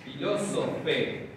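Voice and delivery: Filósofe said slowly, stress on the first o; slow demo pronunciation. Shown as a demonstration. Teacher models Filósofe slowly for students. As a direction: sound out Filósofe slowly for the class. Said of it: "El acento se mantiene".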